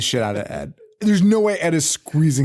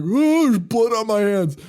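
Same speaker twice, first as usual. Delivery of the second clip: high-pitched put-on alarm; mock horror; 9 semitones higher than usual. Retelling Brad Dorff seeing his hands, hammed-up horror. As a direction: mimic a startled discovery, pitched way up.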